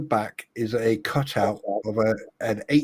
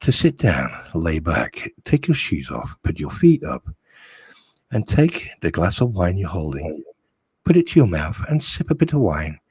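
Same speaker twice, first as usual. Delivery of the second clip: lightly voiced seductive murmur, lower; sexy voice; 4 semitones lower than usual. Coaxing the troll to relax in a mock sexy voice. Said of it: "it's the sexy voice telling you".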